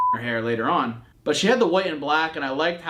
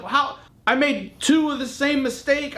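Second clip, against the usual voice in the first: frantic disbelief; 11 semitones higher, slower than usual. Retold or imitated. Retold panic over lost dog.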